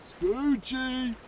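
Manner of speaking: sudden high-pitched cry of "Scoochie"; high squeal. Acted. Calls pet name to chat.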